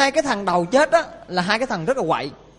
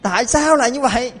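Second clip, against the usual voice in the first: acted upset protest, pitched up; imitated aggrieved lament; tearful complaint; 4 semitones higher, 3 dB louder than usual. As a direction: complain bitterly like bereaved parents. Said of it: "Vô khóc lóc".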